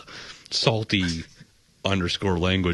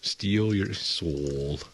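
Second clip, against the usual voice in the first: mad scientist; 2 semitones lower, 4 dB quieter, much slower than usual. Pretend. Soul-stealing villain joke.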